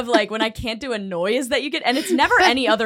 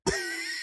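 horse noise attempt; 12 dB quieter than usual. Shown as a demonstration. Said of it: "You wanna do a horse noise".

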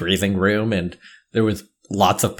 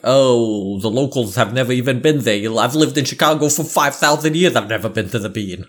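mock local naysayer. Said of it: "what everybody kept telling me".

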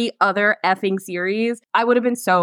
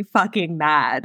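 still mad; 5 semitones lower, much slower than usual. Real, not acted. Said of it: "I am still really".

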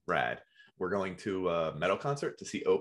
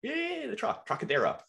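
excited; 13 semitones higher than usual. Real, not acted. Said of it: "excited recognition".

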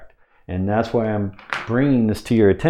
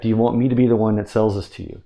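quick pitch line; faster than usual. Shown as a demonstration. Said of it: "You could even say it like that".

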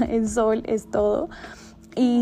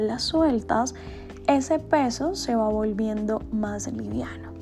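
calm guided meditation voice. Acted. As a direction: guide the listener gently through the meditation.

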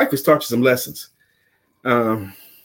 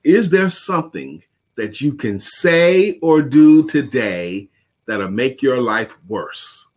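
slow quote reading; 3 semitones lower, slower than usual. Acted. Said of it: "another quote by Zig Ziglar".

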